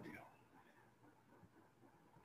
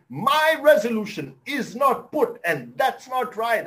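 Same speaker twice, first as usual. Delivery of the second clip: angry teacher; 5 semitones higher, 4 dB louder than usual. Retold or imitated. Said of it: "loud and clear".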